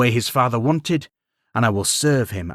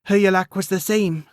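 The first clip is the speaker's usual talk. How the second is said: gentle queen voice; 9 semitones higher than usual. A narrator's reading. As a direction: speak as a weary, kindly queen.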